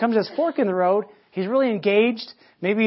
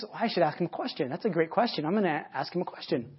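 thinking to himself; 2 semitones lower, 7 dB quieter than usual. Acted. Rabbi privately decides to answer with a question, musing quietly. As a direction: voice it as a quiet aside to yourself.

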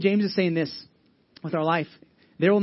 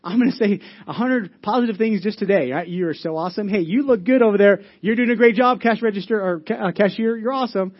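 gushing praise; 2 semitones higher, 5 dB louder than usual. Retold or imitated. Preacher acting out a churchgoer, gushing loud excited praise. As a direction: hype up everyone in sight to earn cash. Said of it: "Because you're like".

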